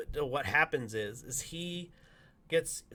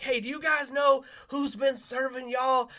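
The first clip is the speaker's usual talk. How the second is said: higher, slow shouted announcement; calling out; 11 semitones higher, 5 dB louder than usual. Retold or imitated. Volunteer calling out to the breakfast crowd, slow and shouted. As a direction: call across the room.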